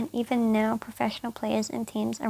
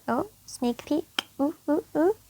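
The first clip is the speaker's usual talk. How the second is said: excited; 4 semitones higher, 3 dB louder than usual. Real, not acted. Teasing a sneak peek.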